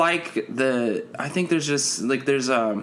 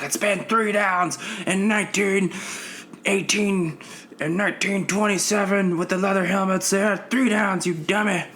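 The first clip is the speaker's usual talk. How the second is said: high nerdy know-it-all voice; whiny football nerd rant; nerdy fan voice; 9 semitones higher than usual. Retold or imitated. Angry football fan ranting.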